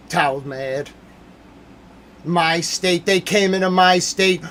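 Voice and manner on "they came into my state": angry shout. Real, not acted. Ranting streamer shouting about state.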